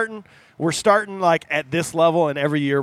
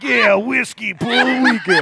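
laughing self-quote; 9 semitones higher, 5 dB louder than usual. Retold or imitated. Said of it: "just take that whole thing and just be like".

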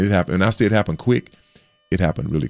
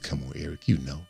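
put-on chuckling raspy old man voice, higher; laughing, voicing Doctor Buss; 3 semitones higher than usual. Doctor Buss teasing Eric at a nightclub, laughing as he talks. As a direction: laugh through the words like the owner at the club.

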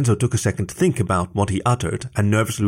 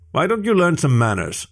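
much higher, called across the road; yelling at bullies; 7 semitones higher than usual. A narrator's reading. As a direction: scold the bullies from afar. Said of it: "yelled out at the bullies".

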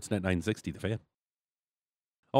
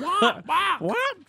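startled shout; 5 dB louder than usual. Real, not acted. Cohost laughs at his attempt.

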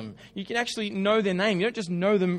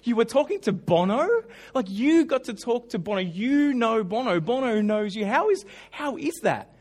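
starstruck; 3 semitones higher than usual. Retold or imitated. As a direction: gush like a starstruck fan. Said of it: "I'm just like".

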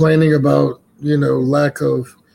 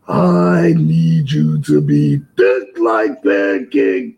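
Ultimate Warrior promo. Pretend. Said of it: "cut a promo as if you are the Warrior".

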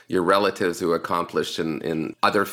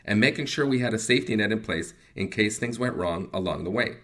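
polished, scripted testimonial delivery; sponsor ad read; 4 dB quieter than usual. Acted. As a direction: read it as a measured client endorsement.

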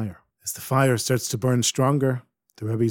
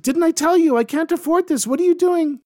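put-on high, loud old woman's protest; old Ukrainian woman shouting at the woodcutter; 4 dB louder than usual. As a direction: yell at him to stop. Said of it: "she shouts at him".

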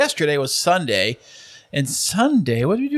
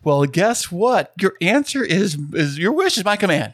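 infomercial; 3 semitones higher than usual. Acted. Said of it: "you sound like an infomercial man right now".

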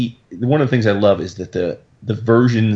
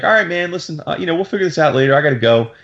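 lightly imitated breezy goodbye, pitched up at first; cheery; 6 semitones higher, faster than usual. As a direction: toss off a mock-casual, friendly sign-off. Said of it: "Psych walks off all cheery".

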